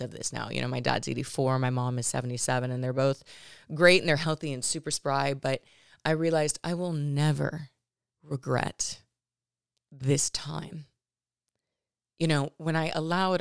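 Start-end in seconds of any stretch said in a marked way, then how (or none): 6.0-13.4 holding back emotion, halting with long pauses; really choking up, pausing between phrases; getting emotional. Real, not acted. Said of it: "I'm gonna get emotional".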